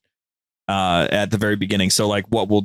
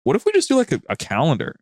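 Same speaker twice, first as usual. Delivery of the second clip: excited idea; 5 semitones higher than usual. Retold or imitated. Late night call with Goose, mock excited pitch. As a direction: voice leaps very high on the pitch of the idea. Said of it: "we're just like".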